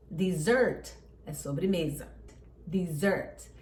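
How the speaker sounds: dessert com a tônica no sert, dizert; stress on second syllable. Shown as a demonstration. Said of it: "a sílaba tônica é a segunda". (ênfase na segunda sílaba: dessert)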